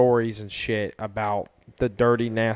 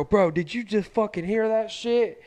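mock stunned; 8 semitones higher, 4 dB quieter than usual. Retelling reaction to buddy.

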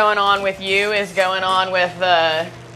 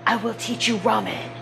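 mock chef; 7 dB quieter than usual. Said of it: "playing the ramen chef".

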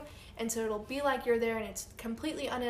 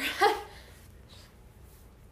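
choking on a drink; 10 semitones higher than usual. Real, not acted. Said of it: "I just choked on my water".

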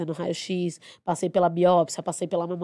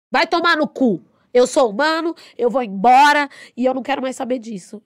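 higher, louder furious cursing; furious outburst; 5 semitones higher, 7 dB louder than usual. Retold or imitated. Nurse cursing out her boss who saw her crying, furious. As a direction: tell the boss off in a rage. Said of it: "eu falei pra ele".

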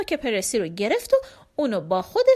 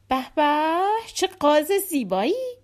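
higher-pitched fawning admiration; flattering; 4 semitones higher than usual. Acted. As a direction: coo over it to win favour. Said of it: "با چاپلوسی گفت".

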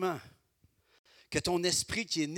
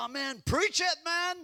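higher mock cheer from a listener in the pews; cheering congregant; 4 dB louder than usual. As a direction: play an excited churchgoer egging the preacher on. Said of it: "Je pourrais être assis là, là, puis dire".

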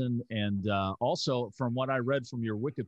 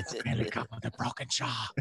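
Bond villain voice; 3 dB quieter than usual. Retold or imitated. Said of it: "we always made him sound like a Bond villain".

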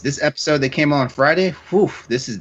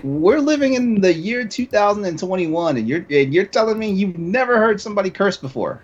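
mock incredulity; 5 semitones higher than usual. Speaker challenging people who clutch their pearls, mock incredulous.

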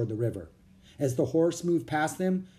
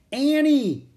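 much higher and louder shout of her name; calling out; 13 semitones higher, 8 dB louder than usual. A narrator's reading. Jack shouting for his lost sister, panicked. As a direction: yell to find her in the crowd. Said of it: "he called".

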